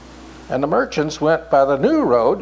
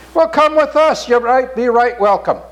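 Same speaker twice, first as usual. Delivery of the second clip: cheery invitation; 6 semitones higher than usual. A narrator's reading. Merchants invite Even along.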